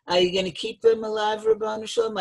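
high, quick appeal to God; appealing question. Retold or imitated. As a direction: put the question up high and fast, pleading lightly.

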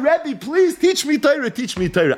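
retold sobbing plea, slowed on please; crying plea. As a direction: beg through mock tears. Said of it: "He starts crying".

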